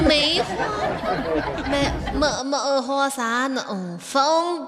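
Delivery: halting slow recital in Kunming dialect. Shown as a demonstration. Co-host continuing the verse, hesitant Kunming dialect. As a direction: stretch each phrase in a Kunming accent. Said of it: "用昆明话".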